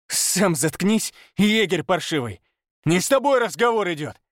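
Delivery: high, contemptuous snarl; menacing. Acted. Pavel aiming at the hunter, contemptuous snarl. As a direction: threaten him with contempt.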